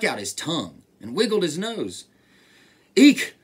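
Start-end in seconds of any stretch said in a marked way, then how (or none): 3.0-3.3 loud, high shriek; sudden storybook eek; frightened shout. A narrator's reading. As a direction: squeal as a scared elephant. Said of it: "shouted the elephant".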